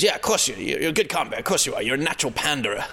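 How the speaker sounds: put-on a sweet-sounding jab from the older comic; sardonic older comic. Older comic needling the young compere, mock-friendly. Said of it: "velvet gloved punch in the face".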